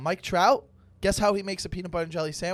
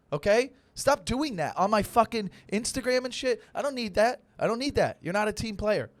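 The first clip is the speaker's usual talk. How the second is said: mock rant; 5 semitones higher than usual. Ranting at fans, coach persona.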